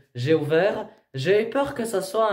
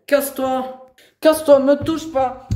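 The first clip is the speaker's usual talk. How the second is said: high, loud furious order; angry shout; 7 semitones higher, 5 dB louder than usual. Real, not acted. Young woman fending off the educator, angry shout. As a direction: yell to be left alone. Real scuffle, sending him away.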